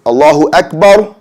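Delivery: Akbar said short, bar not held; correct short bar. Shown as a demonstration. Teacher shows students the right Allahu Akbar, clipped. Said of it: "So we see right here".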